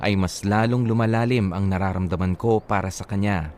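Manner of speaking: low, earnest reading of a listener's letter. Acted. Reads listener's letter aloud. (taimtim na pagbasa ng liham)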